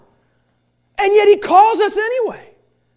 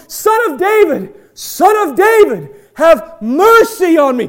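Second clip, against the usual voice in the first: loud, slow pleading cry; calling out for mercy; 5 dB louder than usual. Retold or imitated. Blind Bart calling to Jesus over the noisy crowd, loud and slow. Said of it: "blind Bart going".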